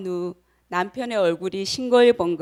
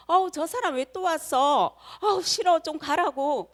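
higher-pitched mock annoyance; acted aversion; 7 semitones higher than usual. Speaker voices inner reaction to a disliked person, annoyed. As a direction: groan about someone you dislike, pitched up. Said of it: "그런 마음이 듭니다".

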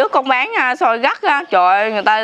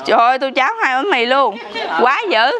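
laughing. Real, not acted. Customer ate huge breakfast.

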